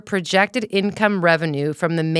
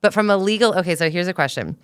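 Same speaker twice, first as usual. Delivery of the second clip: chewing gum. Real, not acted. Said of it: "Hold on, I have gum in my mouth".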